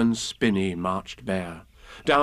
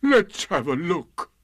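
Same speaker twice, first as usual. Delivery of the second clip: slow, higher doleful donkey; Eeyore, gloomy; 5 semitones higher than usual. A narrator's reading. Gloomy donkey going to check his tail, slow. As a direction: draw it out dolefully. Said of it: "said Eeyore".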